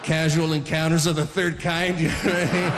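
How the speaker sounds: usual speaking voice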